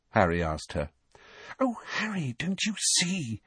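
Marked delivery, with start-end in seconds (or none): 1.6-3.4 soft, high, breathy delight; hushed, excited revelation; breathed. A narrator's reading. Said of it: "Hermione breathed".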